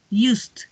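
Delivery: "used" closing on a soft t-like d; soft T-like ending. Shown as a demonstration. Teacher drills past forms, "used" with soft T-like ending. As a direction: add a gentle stop ending "used". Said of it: "Suena un poquito como una T".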